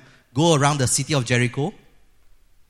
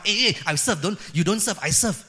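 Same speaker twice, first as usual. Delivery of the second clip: mock squabbling; 5 semitones higher than usual. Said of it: "that means they fight".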